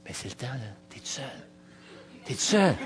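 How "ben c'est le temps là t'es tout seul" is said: soft, low inner voice of the Lord; small inner voice. Retold or imitated. The Lord's small voice nudging the narrator, soft. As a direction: murmur it like a voice inside. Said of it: "une petite voix qui vient du Seigneur".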